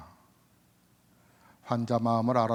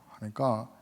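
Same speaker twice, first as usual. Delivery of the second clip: ordinary delivery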